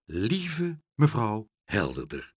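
slow, formal address; ceremonious, measured opening; solemn. A narrator's reading. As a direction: weigh each word gravely. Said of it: "zei meneer Pen plechtig".

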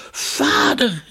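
high, loud call into the fog. A narrator's reading. The children call their father in the fog, high loud call. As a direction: call for father through the mist. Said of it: "riepen Dunja en Jorkos tegelijk".

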